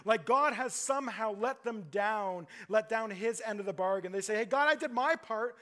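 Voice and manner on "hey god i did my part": mildly indignant complaint to God; scandalized. Acted. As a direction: voice a shocked, let-down believer. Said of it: "feel shocked and even scandalized".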